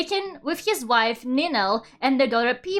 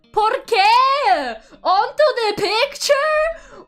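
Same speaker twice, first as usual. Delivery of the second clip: disgusted disbelief; 9 semitones higher, 4 dB louder, much slower than usual. Real, not acted. Disgusted by the scene.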